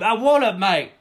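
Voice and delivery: high, loud victory yell; hammed-up scream of celebration; mock celebratory scream. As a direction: holler it out in mock triumph. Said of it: "You stand and you scream".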